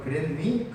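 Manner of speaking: mock Seoul accent with 그랬니 ending on a lifted rise; mimicking a Seoul speaker's rising 그랬니. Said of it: "하고 올린다".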